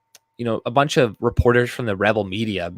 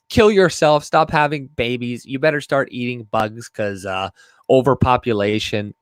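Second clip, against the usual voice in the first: mock Alexa rant. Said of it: "this is what the voice goes in on".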